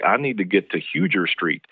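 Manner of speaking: "Huger" said as spelled, HUE-jer; newcomer's mispronunciation. Retold or imitated. Newcomer asking for a street in Columbia, naive HUE-jer. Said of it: "I was like".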